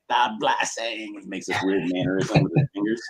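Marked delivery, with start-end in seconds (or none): 0.1-1.2 slow, drawn-out lightly done Cage delivery; Nicolas Cage line. Retold or imitated. Imitating Nicolas Cage's line to a friend, slow mock Cage. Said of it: "He's like".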